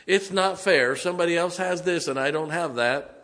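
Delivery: put-on childish sulky complaint; mock whine. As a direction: play the jealous sulker. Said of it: "sulking self-pity attitude".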